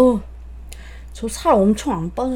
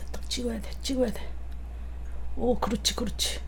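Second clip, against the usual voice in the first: very quiet murmur; 15 dB quieter than usual. Real, not acted. Concentrating, very soft.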